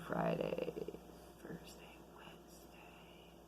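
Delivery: slow whispered list of days. Real, not acted. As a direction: whisper it, the house is asleep. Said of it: "I gotta talk quiet".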